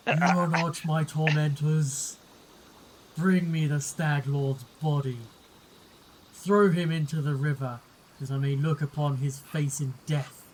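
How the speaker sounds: measured, understated ghoulish command; eerie undead voice. Acted. Wet ghoul commanding the party, lightly eerie undead voice. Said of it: "calls out in an eerie, soggy voice".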